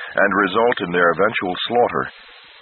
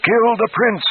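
hellish shriek. A narrator's reading. Flagg from the Needle screeching at the guards. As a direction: scream the order like a madman. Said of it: "Flagg shrieked hellishly".

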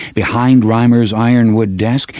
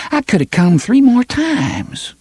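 high indignant complaint; 13 semitones higher than usual. Acted. Continues her outburst.

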